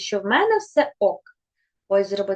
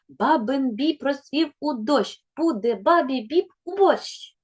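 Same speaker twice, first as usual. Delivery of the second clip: «Бабин біб» said briskly and higher; tongue twister quickly; 3 semitones higher than usual. Shown as a demonstration. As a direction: rattle off the twister. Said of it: "скоромовки вимовляються швидко". (швидка скоромовка)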